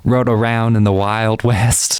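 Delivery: lightly put-on Wild West accent. Gamer imagines riding a horse out West, light Western accent. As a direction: slip playfully into a hint of Western cowboy accent. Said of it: "I don't know what that accent was".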